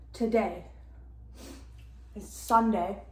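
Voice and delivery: talking while chewing gum. Real, not acted. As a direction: mouth full of gum. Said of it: "sorry, I have gum in my mouth".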